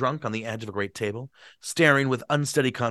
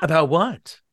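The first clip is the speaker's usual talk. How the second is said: higher, louder eager voice; a lightly comic drunk gentleman; tipsy man's voice; 6 semitones higher, 6 dB louder, slower than usual. Acted. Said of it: "give Gatsby a bad voice".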